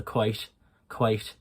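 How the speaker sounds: Irish "quite" with a breathy T; lightly touch the T, then breathe it out, Irish style; Irish accent. Shown as a demonstration. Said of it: "It's quite breathy".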